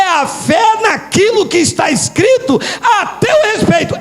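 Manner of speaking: forceful, deliberate sermon delivery; preacher declaring a truth; emphatic preaching. Real, not acted. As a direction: drive each phrase home to the congregation.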